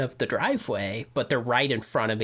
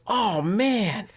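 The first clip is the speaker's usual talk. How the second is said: sympathetic attendant; 9 semitones higher than usual. Retold or imitated. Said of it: "he goes".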